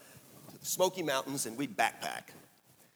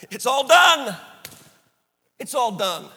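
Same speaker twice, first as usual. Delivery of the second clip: exultant declaration; 9 semitones higher, 11 dB louder than usual. Pretend. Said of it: "that's what Paul said".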